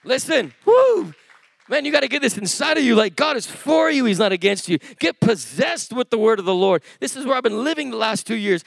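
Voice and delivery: high-pitched, urgent sermon delivery; fired-up preacher testifying; impassioned preaching. Acted. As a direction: preach it with fervour. Preaches with force.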